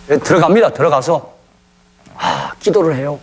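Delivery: ordinary delivery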